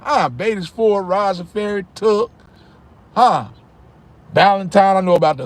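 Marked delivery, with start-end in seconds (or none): none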